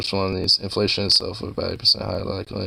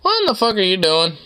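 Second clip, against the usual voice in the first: high, startled "what are you doing"; sudden pitched-up disbelief at the cat; incredulous outburst; 9 semitones higher than usual. Real, not acted. Watching the cat, shocked and pitched high.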